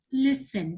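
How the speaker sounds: listen with a light, unstressed second syllable; unstressed last syllable. Shown as a demonstration. Teacher giving an example, listen without final stress. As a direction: let the end of listen stay weak. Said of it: "I didn't make this stress on the sound".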